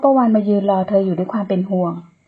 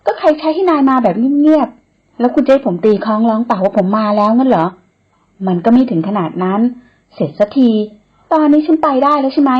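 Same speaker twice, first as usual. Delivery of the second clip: louder, higher, insistent retort; arguing back; 3 semitones higher, 4 dB louder than usual. Acted. Woman argues back at the man relentlessly. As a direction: refuse to give an inch. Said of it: "เถียงกลับไปอย่างไม่ลดละ".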